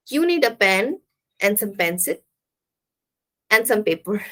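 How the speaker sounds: paused list, "pen" and "pencil" up, "paper" down; rising and falling. Shown as a demonstration. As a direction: separate the items, fall on "paper". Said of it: "rising and falling".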